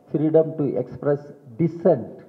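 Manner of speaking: "dissent" given firm weight at the end; stress on dissent. Real, not acted. Speaker repeating the right for emphasis, stress on "dissent". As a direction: repeat it deliberately, landing on "dissent". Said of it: "emphasize that word".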